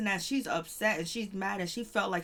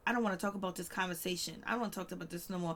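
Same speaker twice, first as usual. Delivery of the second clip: fast, softer brush-off; wife refusing to discuss it, hurried and quieter; dismissive; 5 dB quieter, faster than usual. Retold or imitated. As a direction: rush through it to end the conversation. Wife shutting down talk.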